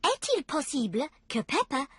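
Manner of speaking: a polite French request on the telephone; Mummy asking in French to speak to Delphine; courteous French phone voice. Acted. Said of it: "Mummy Pig is asking".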